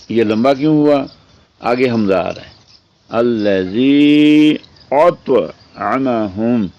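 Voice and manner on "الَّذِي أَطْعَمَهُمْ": slow Quranic chant, rising on الَّذِي; teacher reciting the verse for students; Quran recitation. Acted.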